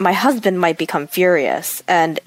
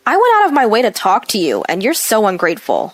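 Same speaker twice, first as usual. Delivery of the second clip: complaining. Acted. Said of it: "She complained in response".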